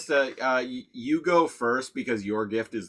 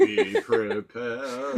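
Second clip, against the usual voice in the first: dinosaur voice; 3 semitones lower, much slower than usual. Pretend. Quoting Scar's villain song.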